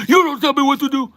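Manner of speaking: very high, loud screamed retort in a put-on Asian accent; shrieking Asian-accent caricature, outraged; mock thick Asian accent. Barista imitating customer yelling back, screaming in Asian accent. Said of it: "with a very thick accent".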